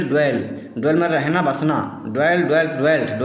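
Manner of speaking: teacher sounding out dwell; pronouncing dwell. Shown as a demonstration. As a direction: dwell said slowly and clearly, the d and l crisp. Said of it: "dwell से बनता है".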